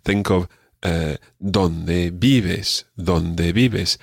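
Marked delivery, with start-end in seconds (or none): 1.4-2.8 Donde vives said DON-de VI-ves; stress on first syllables. Shown as a demonstration. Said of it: "the stress on the first syllable". 2.9-4.0 Donde vives said DON-de VI-ves; stress on first syllables. Shown as a demonstration. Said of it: "the stress on the first syllable".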